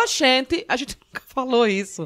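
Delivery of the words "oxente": put-on caricatured soap-opera Northeastern accent, higher pitched; imitation Northeastern accent. Comedian mocking people who imitate Northeasterners, caricatured Northeastern accent. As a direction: mimic outsiders overdoing a Northeastern accent. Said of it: "quando vai imitar o nordestino".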